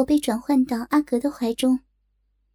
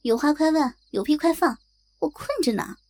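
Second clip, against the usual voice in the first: half asleep. Acted. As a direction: mumble it like you're half asleep. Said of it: "半睡半醒地问道". (半睡半醒地嘟囔)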